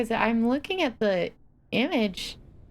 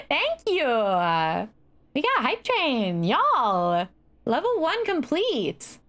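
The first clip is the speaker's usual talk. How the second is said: hoarse sleep deprived hype; 4 semitones higher, slower than usual. Real, not acted. Hype train level complete.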